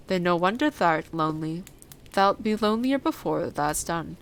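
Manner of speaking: a hint of blunt country dialect; lightly voiced old Yorkshire gardener.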